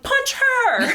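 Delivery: high, loud egging-on yell; mock shout. Shirley MacLaine eggs on a friend at the funeral, high mock shout. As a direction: bark it like urging a fight.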